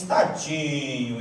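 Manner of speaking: slow pitying sigh of poor thing; pitying drawl. Retold or imitated. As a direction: drag it out with pity. Someone pitying a child.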